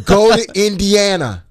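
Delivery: drawn-out, deliberate quote; slow. Shown as a demonstration. Co-host making listeners hear the director's line properly, slow. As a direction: stretch the words out slowly. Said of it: "You gotta say it slow".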